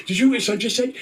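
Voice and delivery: high-pitched indignant mom impression; appalled mother. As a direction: act out a scandalized mother appealing to her husband. Mother appalled, appeals to dad.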